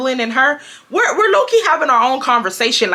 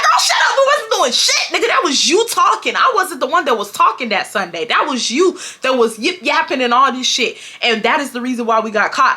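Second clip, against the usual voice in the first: mock heated retort. Narrator's retort to Nikki.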